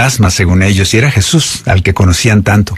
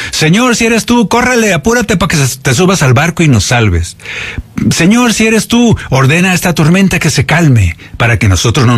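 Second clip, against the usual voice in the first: mock panicked plea; 4 semitones higher than usual. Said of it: "Cualquiera le hubiera dicho".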